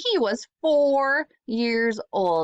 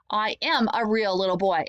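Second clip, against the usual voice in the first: shouted. Acted. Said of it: "Evan shouted".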